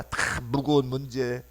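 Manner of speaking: normal talking voice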